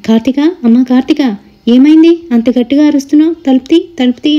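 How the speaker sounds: urgent call, knocking to be let in; worried shout. Acted. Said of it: "అని అరుస్తుంది". (కంగారుగా అరుపు)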